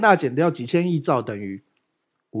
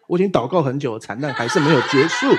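laughing. Real, not acted. Joking about own suffering.

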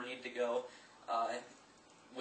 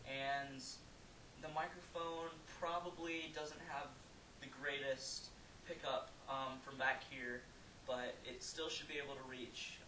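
faint, distant voice from far back; far from mic; 12 dB quieter than usual. Real, not acted. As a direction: speak from twenty feet away, much softer. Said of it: "now I'm twenty feet away".

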